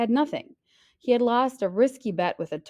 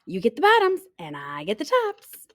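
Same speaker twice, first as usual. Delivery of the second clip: much higher, loud call; 11 semitones higher, 4 dB louder than usual. Acted. Hare calling sleeping bear at harvest, loud. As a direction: shout it across the field. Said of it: "Hare called out".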